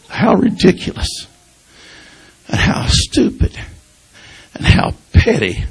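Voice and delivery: choked whisper. Real, not acted. Preacher confessing his pettiness to his grandmother, in a choked whisper. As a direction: let how ridiculous fall to a pained whisper.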